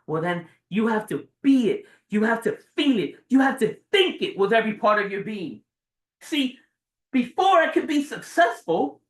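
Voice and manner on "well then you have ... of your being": father's firm advice. Retold or imitated. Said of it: "Looks at me straight in the eyes and he says".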